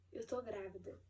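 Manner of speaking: quiet, dazed, hardly believing it; stunned disbelief. Retold or imitated. Reading the test result alone, in quiet disbelief. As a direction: say it as if you can't believe the words. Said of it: "Eu fiquei, assim, desacreditada".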